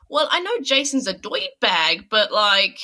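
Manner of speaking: a light imitation of a thirties New York gangster accent. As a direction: lightly mimic a New York tough guy in a suit. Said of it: "talking like a thirties gang singer".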